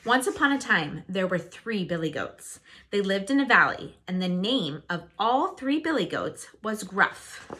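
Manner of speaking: put-on lively read-aloud for young listeners; storybook narration. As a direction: tell it like a bedtime fairy tale. Reads a fairy tale to children.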